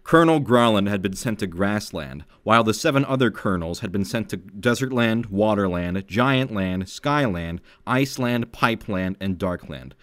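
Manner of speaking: put-on reading her childhood fanfic to friends, earnest narration; story reading. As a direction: read it like an epic war tale. Reads old fanfic aloud.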